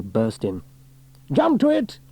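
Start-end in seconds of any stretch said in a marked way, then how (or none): 1.3-2.0 high, loud command; barked order. A narrator's reading. Officer ordering crew to fire, loud barked order. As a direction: snap them into action. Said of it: "he ordered".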